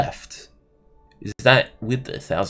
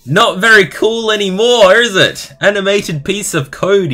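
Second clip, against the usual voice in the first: high, loud taunting voice; mocking voice; 11 semitones higher, 8 dB louder than usual. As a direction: mimic a taunting critic. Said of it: "he's calling it".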